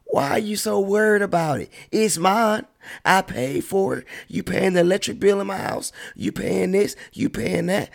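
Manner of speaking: high, sharp mock retort to the critics; indignant comeback.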